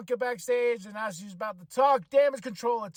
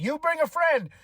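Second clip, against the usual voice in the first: high mocking voice; 9 semitones higher, 5 dB louder than usual. Acting out a backstage taunt.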